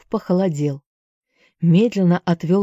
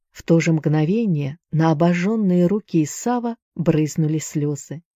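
ordinary delivery

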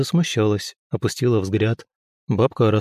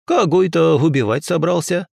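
higher, louder crone voice; sharp old woman; 6 semitones higher, 4 dB louder than usual. Acted. Old healer turns on the young man, sharp. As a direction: snap the question like a suspicious old witch.

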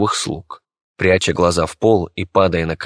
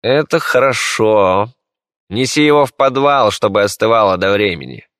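pleased emperor; 3 semitones higher, 4 dB louder than usual. Acted. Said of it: "улыбаясь, произнёс император".

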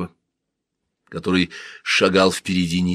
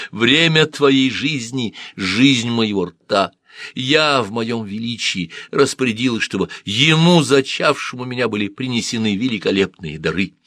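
haughty yet pleading; 4 semitones higher than usual. Acted. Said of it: "в её заносчивых словах умоляющую ноту".

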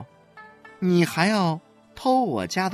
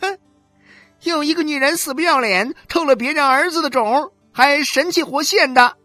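much higher and louder, fast and spitting; furious shrill jeer; 8 dB louder than usual. A narrator's reading. 何小勇's wife screaming back at 许玉兰, furious and fast. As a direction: hurl the insult, slapping her thighs. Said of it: "双手拍着自己的大腿说".

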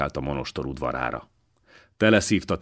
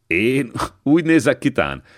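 laughing; 7 semitones higher, 5 dB louder than usual. A narrator's reading. Old man amused by priest question.

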